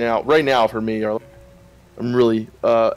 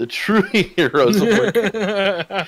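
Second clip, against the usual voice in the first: mock epic; 6 semitones higher, much slower than usual. Mock-epic praise, laughing.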